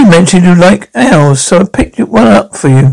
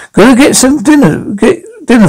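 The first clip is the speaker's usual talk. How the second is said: says it through a chuckle; light laugh on the words; 6 semitones higher than usual. Real, not acted. Chuckles while leaving for dinner.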